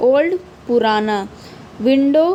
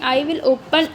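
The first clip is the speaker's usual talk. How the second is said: slow poem reading; much slower than usual. Acted. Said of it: "तो उसने बोला".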